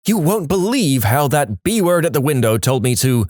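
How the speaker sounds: mock outrage with lively pitch swoops; lightly hammed-up indignation; imagined indignant retelling. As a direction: act out an affronted customer telling the tale. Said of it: "imagining these people relaying stories like this".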